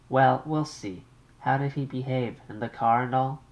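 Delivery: an anxious mother on the line. Acted.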